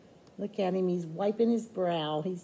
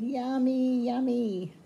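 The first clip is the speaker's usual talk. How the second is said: put-on children's voice; 4 semitones higher, slower than usual. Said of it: "And they said".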